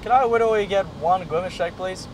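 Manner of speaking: put-on mild childish w-for-r voice; Widowy voice. Practising before pulling up to Macca's, Widowy voice. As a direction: rehearse the order with softened r's. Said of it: "I'll do the Widowy voice".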